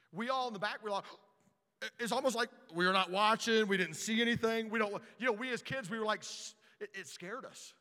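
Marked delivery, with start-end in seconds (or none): 6.2-6.5 hushing. Retold or imitated. Scared boys hushing.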